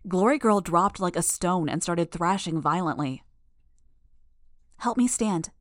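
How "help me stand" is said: strained. Acted. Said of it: "Tattletale's voice was strained".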